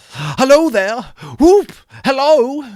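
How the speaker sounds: put-on a whooping old man calling out; joyful whoop. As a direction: holler it out with glee. Scrooge whooping in joy.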